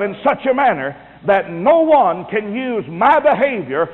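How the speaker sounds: emphatic sermon voice; preaching. Acted.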